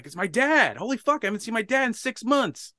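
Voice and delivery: high, loud burst of astonishment; retold freak-out. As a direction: re-enact being thrilled and stunned. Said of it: "I freak out".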